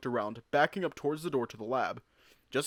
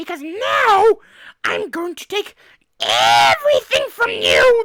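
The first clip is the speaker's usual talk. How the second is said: gleeful rat screech, very high, very loud, shrill; 15 dB louder than usual. Reading the gleeful rat's threat aloud: talking rat voice. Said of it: "That voice does not fit him".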